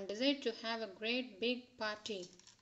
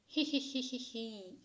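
giggling. A narrator's reading. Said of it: "everyone giggled".

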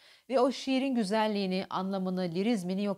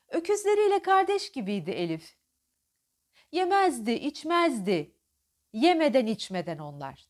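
affectionate, higher recital; tender; 4 semitones higher, 4 dB louder than usual. Shown as a demonstration. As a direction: say it fondly with a smile. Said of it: "sevecen bir ifade". (sevecen okuma)

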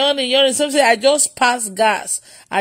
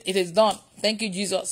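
retold prayer; 5 semitones lower, 7 dB quieter than usual. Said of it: "And I just said".

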